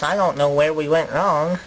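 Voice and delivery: low, rueful colonist voice; regretful interviewee. Acted. Colonist tells interviewer of losing the colony, low and rueful. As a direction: puzzle over the failure, pitched low.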